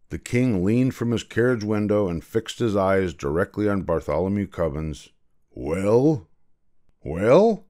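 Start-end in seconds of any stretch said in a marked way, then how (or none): 5.5-7.7 demanding. A narrator's reading. King fixes his eyes on the frightened boy, demanding. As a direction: press harder on the second word. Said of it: "he demanded".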